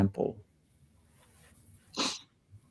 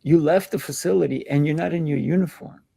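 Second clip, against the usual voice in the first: put-on amazed kid; 5 semitones higher than usual. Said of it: "I'm like".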